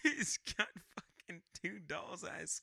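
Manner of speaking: put-on seaman voice with broken pauses; Quint. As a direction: struggle to hold an old sailor voice. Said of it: "you keep talking like that".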